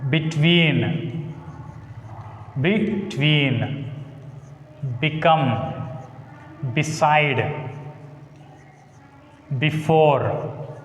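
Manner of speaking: define, delete, debate each weighted at the end; teacher lists words with end stress; stress on second syllable. Shown as a demonstration. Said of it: "take stress on the second syllable".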